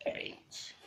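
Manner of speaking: letter burped out. Shown as a demonstration. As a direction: burp the letter H. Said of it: "That was H".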